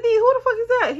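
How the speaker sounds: high, loud demanding who the fuck; demanding yell. Retold or imitated. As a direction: shout the question at him in outrage. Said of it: "I said".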